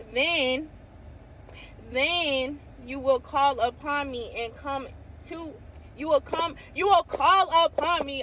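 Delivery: carried away by the verse; excited reading. Real, not acted. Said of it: "I get excited".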